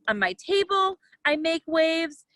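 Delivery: normal talking voice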